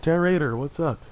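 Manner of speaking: loud, high greeting to a viewer; upbeat hype shout-out; excited shout-out. Real, not acted. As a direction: call out the name like spotting a friend. Greeting a chat member by name.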